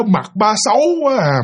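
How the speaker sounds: nhại nhẹ giọng bé chê; lặp lại lời bé, hơi giọng trẻ con; giọng con nít. Retold or imitated. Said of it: "Nó nói vậy đó". (đứa con chê mặt ba, nhại nhẹ giọng trẻ)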